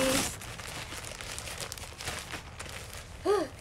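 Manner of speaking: sharp breathy hiccup; hiccup gasp. Real, not acted. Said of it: "Hate the hiccups".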